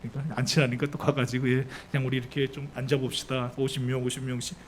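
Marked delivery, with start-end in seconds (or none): 1.5-4.6 soft, lower-pitched compliant request; mild, dutiful voice; obliging disciples. Acted. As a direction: gently usher people to sit, lightly acted. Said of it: "제자들도 착해요".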